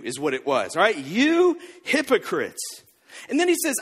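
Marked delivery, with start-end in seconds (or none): 1.0-2.8 slow, drawn-out scornful rebuke; cutting rebuke. Retold or imitated. Jesus rebuking the religious leaders, lightly voiced slow scorn. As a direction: drag out the insult, each word landing. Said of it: "the biggest diss Jesus could give".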